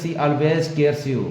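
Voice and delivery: each word drawn out slowly; slow teacher read-aloud; slow read of example. Shown as a demonstration. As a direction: read the sentence slowly for the class. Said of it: "तो यहाँ क्या लिखा है?".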